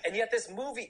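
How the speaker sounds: lightly voiced German fan, high and slow; imitating German fan. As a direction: quote the towering fan, lifted and drawn out. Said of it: "he was German".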